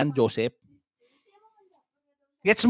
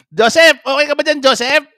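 raised, higher call to Joseph; mock calling out; 4 semitones higher, 3 dB louder than usual. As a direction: call out as if checking on someone. Calling Joseph, asking if there.

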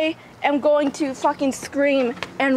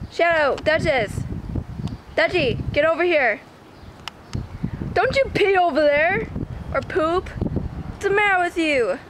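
raised, high calls and scolding; calling the dogs; 4 semitones higher than usual. Real, not acted. Owner calling and scolding her dogs near the grass, raised and high. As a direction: call them off the grass sharply.

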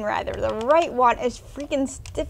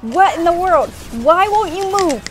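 louder, exasperated questions; frustrated gamer; 3 semitones higher, 4 dB louder than usual. Real, not acted. Gamer scolding the unresponsive game, exasperated. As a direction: complain at the stuck controls.

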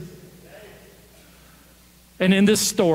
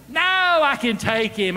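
put-on insistent kid, pitched up; drawn-out, higher-pitched insistence; adamant; 5 semitones higher than usual. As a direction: protest stubbornly, sure of yourself. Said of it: "this kid is adamant".

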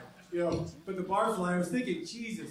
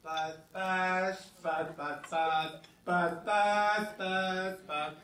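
fruit fly; much slower than usual. Pretend. Comic imitates a fruit fly, buzzing. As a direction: buzz like a tiny insect. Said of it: "My impersonation of a fruit fly".

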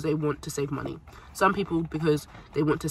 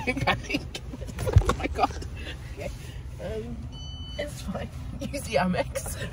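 breathless laughing panic; panicked laughing; 6 semitones higher, slower than usual. Real, not acted. Card missing at drive-through.

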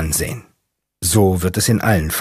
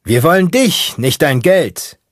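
a much higher, louder yell into the wind; shouting out the window; 8 semitones higher, 4 dB louder, slower than usual. Acted. Mechanic yelling out the car window into traffic, shouting. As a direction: shout it over the roaring night wind. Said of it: "schreit aus dem Fahrerfenster".

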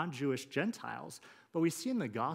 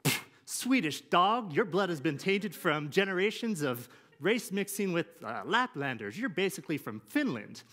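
high, loud scornful bigot; racist old father; 4 semitones higher, 5 dB louder than usual. Retold or imitated. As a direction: spit out the insult, hammed-up bigot. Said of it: "And he looks at her and says".

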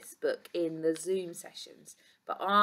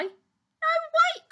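high, loud call to stop; urgent cry; 9 dB louder than usual. A narrator's reading. Keeper stops Doctor Duck leaving, urgent cry. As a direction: cry out to halt someone leaving. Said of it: "cried Mister Keeper".

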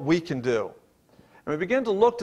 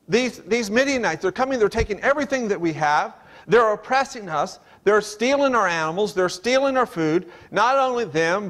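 a hint of aggrieved Gideon, pitched higher; mild higher-pitched lament of Gideon; complaining Gideon; 4 semitones higher than usual. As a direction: lightly voice Gideon's protest, raised pitch. Preacher voices complaining Gideon.

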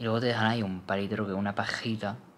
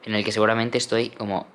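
loud plea; 9 dB louder than usual. Real, not acted. Begging viewers to forget her hair.

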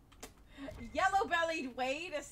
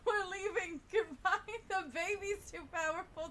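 loud, higher panicked yelling; panicked shout; 6 semitones higher, 7 dB louder than usual. Real, not acted. Player fleeing the dragon, loud panicked shouting. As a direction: flee shouting in a rush.

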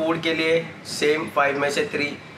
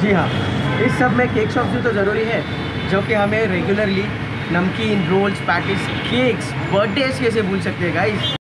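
muffled behind respirator; mask-covered mouth; through a face mask; 4 semitones higher, 3 dB louder than usual. Real, not acted. Seen 4: White respirator mask covers nose and mouth throughout the speech.

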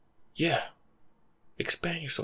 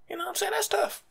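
high mock pity. Punchline after the rant.

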